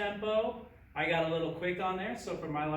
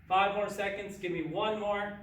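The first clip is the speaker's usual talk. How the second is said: gung ho; 4 semitones higher, 3 dB louder than usual. Real, not acted. Coach pushing final reps.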